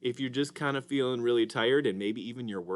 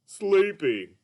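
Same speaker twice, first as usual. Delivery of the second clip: high, slow cartoon puppet voice; Mister Dolphin puppet; 9 semitones higher, 8 dB louder, slower than usual. Puppet greets the kids as Mister Dolphin, high and slow. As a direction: play a sleepy, sing-song puppet. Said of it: "Mister Dolphin".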